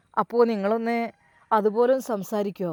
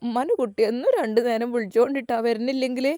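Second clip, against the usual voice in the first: mother crying; faster than usual. Acted. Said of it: "ശരിക്കും കരഞ്ഞുകൊണ്ട്".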